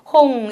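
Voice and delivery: 홍 with the final ng held. Shown as a demonstration. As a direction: hum out the ng closing 홍. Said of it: "응 이런 소리들 있죠?". ("홍"의 끝 응 소리를 길게 끌어서)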